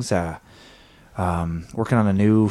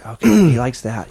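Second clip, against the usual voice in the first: louder, excited he likes that; excited relief; 2 semitones higher, 6 dB louder than usual. Acted. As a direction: blurt it out relieved. Dog reacts, relieved excited remark.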